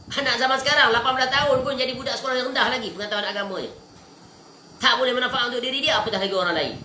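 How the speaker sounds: high, emphatic sermon voice; forceful preaching. Real, not acted. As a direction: drive the criticism home to the congregation. Preaches against modern upbringing.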